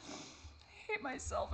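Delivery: slow, voiceless after crying; spent whisper. Real, not acted. After sobbing, whispering it to herself. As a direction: barely get it out, emptied.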